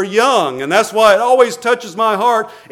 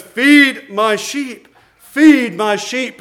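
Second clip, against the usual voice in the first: slow charge; 2 semitones higher, much slower than usual. Acted. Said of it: "He says".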